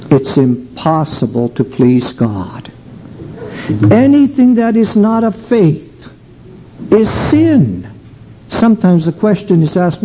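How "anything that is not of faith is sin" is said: higher, pressing Anything hard; emphatic declaration. Real, not acted. Preacher warning the congregation, stressing Anything.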